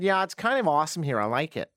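put-on botched Texan woman's accent; attempted Texan accent. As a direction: have a shaky go at Texan. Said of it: "that's not my Texan accent".

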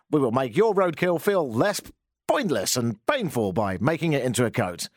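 lively announcer voice with big pitch swings; radio advert. Acted. Host voices a mock ad for roadkill fur, radio advert. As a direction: sell it like a radio commercial. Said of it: "advertise on News Talk ten ten".

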